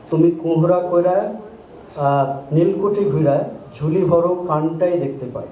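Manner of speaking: reciting satirical Gombhira lines in Shershabadia; lightly performed Shershabadia satire; Shershabadia Gombhira verse. Shown as a demonstration. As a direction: deliver the mocking verse in Shershabadia dialect, rhythmic. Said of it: "তার কয়েকটা line আমি বলবো".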